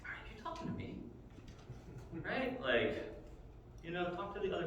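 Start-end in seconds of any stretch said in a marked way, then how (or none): 0.0-0.9 put-on high, breathy, offended teen; snotty teen. Teen girl at the well, offended by the stranger. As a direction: act insulted like a snooty teenager. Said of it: "teenage angst".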